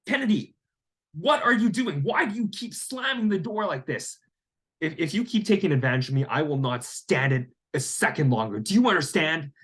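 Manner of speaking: high, sharp retold telling-off; angry scolding. Landlord scolding his tenant Kennedy for slamming doors, with high, stern anger. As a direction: lay down the law to him.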